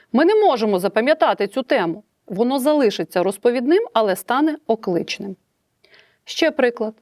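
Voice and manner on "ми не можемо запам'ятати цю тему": «можемо» with an emphatic fall; exclamatory. Shown as a demonstration. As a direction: say it as an emotional exclamation. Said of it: "Я можу його зробити окличним". (окличне розповідне речення, з емоцією)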